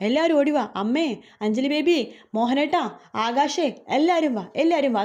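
mock-alarmed calling out; calling everyone over. Manorama calls everyone to hall.

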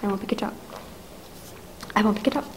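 hushed, terrified murmur; barely voiced, scared to be overheard; frightened hush. Invalid hiding from the eavesdropper, terrified hush.

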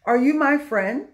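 "friend" rising at the end as a question; asking a question. Shown as a demonstration. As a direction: ask it, lifting the pitch on "friend". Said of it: "Let's ask him a question".

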